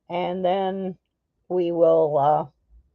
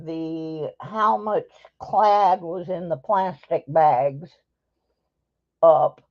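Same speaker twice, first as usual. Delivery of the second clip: mouth full. Real, not acted. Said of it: "I'm gonna talk with my mouth full".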